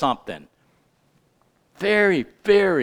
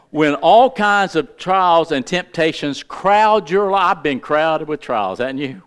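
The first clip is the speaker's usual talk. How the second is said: slower, stressed reread of the verse; read slower. Shown as a demonstration. Preacher rereading the verse slower for his congregation. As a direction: lean on each phrase the second time. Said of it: "I'll read it slower for some of you".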